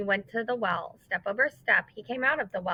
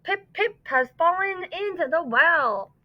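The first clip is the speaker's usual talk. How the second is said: breathless, pitched-up and urgent; gasping; 7 semitones higher than usual. Acted. Chang telling his mother of his brother, gasping. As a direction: squeeze it out on the last bit of air. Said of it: "he gasped".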